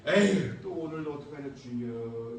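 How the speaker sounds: mock weary pastor; weary sigh.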